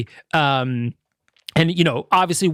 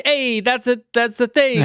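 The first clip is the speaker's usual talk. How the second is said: higher-pitched mock excitement; excited recognition; 7 semitones higher than usual. Viewer spots a hidden Nintendo reference, playfully excited. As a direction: imitate a fan delighted to spot something.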